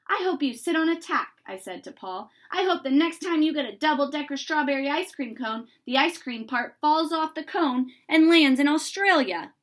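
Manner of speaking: put-on loud, spiteful child's wish. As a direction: spit the wish at him. Child wishing bad on friend.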